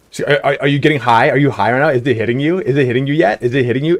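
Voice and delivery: lightly voiced girlfriend, quick rising questions; rapid-fire questions. Girlfriend firing questions at a tripping friend, lightly imitated. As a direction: pepper him with quick questions. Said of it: "she just a rapid fire at this guy".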